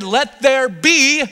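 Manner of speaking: booming slow decree; voice of God. Acted. God speaking the world into being, slow and loud.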